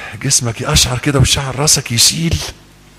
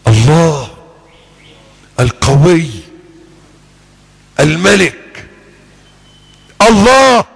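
solemn litany of names; 2 semitones lower, much slower than usual. Acted. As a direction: let each name ring, rising to a shout. Solemn chant of divine names.

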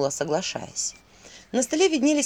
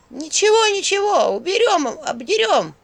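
much higher, louder squeaky chorus; little imps; 10 semitones higher, 6 dB louder, slower than usual. Acted. Little imps answer the Owl, high loud squeak. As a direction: chirp it like tiny imps. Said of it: "послышались голоса".

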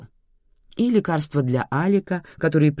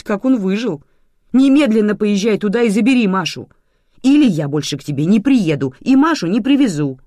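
loud, pressing, indignant demands; indignant scolding; 5 semitones higher, 7 dB louder than usual. A narrator's reading. Mother ordering grandmother to fetch her daughter, angry and loud.

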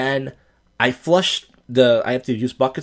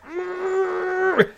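strained hum. Retold or imitated. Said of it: "I'm like".

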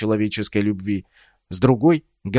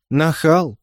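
drawn-out laugh; 4 semitones higher than usual. A narrator's reading. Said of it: "протяжно рассмеялась Ольга".

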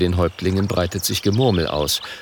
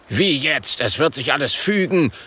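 mildly angry; 6 semitones higher than usual. Acted. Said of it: "ruft Grüne Leuchte wütend".

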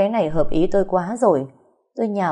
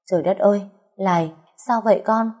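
startled cry; 3 semitones higher than usual. Acted. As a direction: gasp out the question in shock. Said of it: "giật mình lắp bắp hỏi". (giật mình thốt lên)

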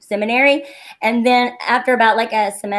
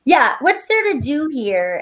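lightly voiced son, slow and a bit higher; imitating young son; 4 semitones higher, slower than usual. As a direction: drag out your kid's question. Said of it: "And he's like".

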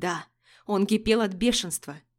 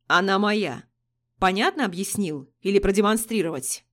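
зловеще; 3 dB louder than usual. Acted. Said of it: "уточнил Кувалов зловеще".

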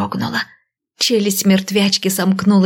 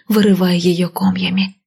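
usual speaking voice

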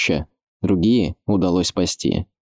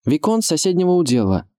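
formal announcement in raised pitch; Адам; 10 semitones higher than usual. A narrator's reading. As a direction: introduce yourself as a young lord calling up. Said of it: "представился Адам".

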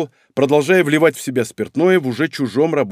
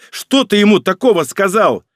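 loud and high accusing; raised voice; 7 semitones higher, 5 dB louder than usual. A narrator's reading. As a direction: demand it at full voice. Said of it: "повысил Аурелио голос".

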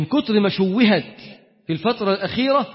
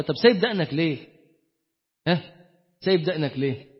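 gentle father; 4 semitones lower, 5 dB quieter than usual. Retold or imitated. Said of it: "طبطب عليك".

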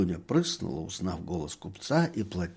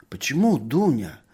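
surprised whisper; 4 semitones higher, 4 dB louder than usual. A narrator's reading. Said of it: "удивлённо шепчет доктор".

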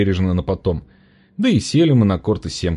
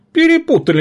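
indignant outburst; 6 dB louder than usual. A narrator's reading. Injured man indignant.

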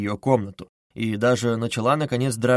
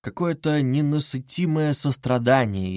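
plain reading voice

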